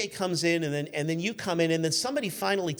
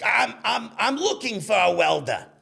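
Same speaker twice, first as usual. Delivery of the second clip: put-on rough, slow, drawn-out, creaky voice; 4 semitones higher, 5 dB louder than usual. Asked to do the voice again, speaker does a put-on impression voice. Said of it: "I did the voice".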